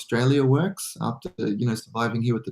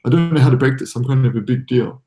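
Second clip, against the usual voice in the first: mock boast; 3 dB louder than usual. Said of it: "I can say the joke now".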